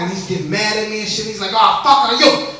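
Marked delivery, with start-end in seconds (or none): 1.5-2.5 angry mock Chinese accent, higher and louder; garbled swearing in a mock Chinese accent. Angry restaurant owner cursing back, mock Chinese accent. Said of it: "they can't swear right".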